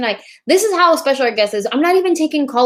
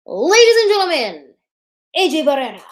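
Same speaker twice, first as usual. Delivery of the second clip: higher, grand announcer call of "A J Barrera"; announcer intro; 5 semitones higher, faster than usual. Real, not acted. Host reintroducing her guest in grand announcer style. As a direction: present the guest like a ring announcer. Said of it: "I'll redo it again".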